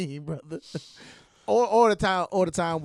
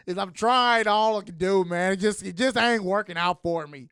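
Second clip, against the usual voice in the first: whiny plea; 3 semitones higher, 6 dB louder, slower than usual. Retold or imitated. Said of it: "He's like".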